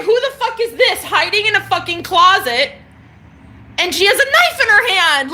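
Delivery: high, loud, laughing through the words; can't stop laughing at the memory; laughing while telling. Real, not acted. Telling viewers about the scared painters, laughing.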